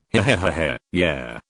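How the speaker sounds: smug chuckling, lightly voiced; arrogant laugh. A narrator's reading. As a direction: laugh it off, full of yourself. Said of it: "Gary laughed arrogantly".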